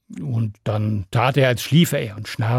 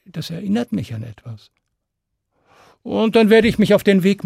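cheeky Stan; 3 semitones higher than usual. Acted. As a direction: pretend to be hurt, then set terms. Stan bargaining slyly.

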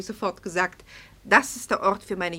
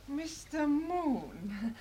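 delighted greeting; 6 semitones higher, 8 dB quieter, much slower than usual. Acted. Hostess greets famous painter.

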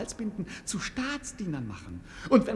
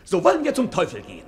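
loud; 8 dB louder, faster than usual. Acted. Trotziger Vorschlag des Dieners.

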